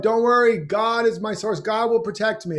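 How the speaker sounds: smug holy calm; serene believer. Retold or imitated. Harry refuses rescue, serene.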